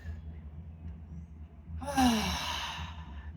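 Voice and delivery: long deep breath, let out audibly; slow guided breath with an audible exhale. Shown as a demonstration. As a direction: breathe deeply and release a long sigh. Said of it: "take a deep breath with me".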